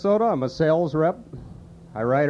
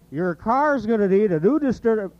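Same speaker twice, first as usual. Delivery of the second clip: high Sid voice tripping on the word; higher fumbled Sid line; Sid impression, stumbling; 5 semitones higher than usual. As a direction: trip over distur-. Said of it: "you can do Sid".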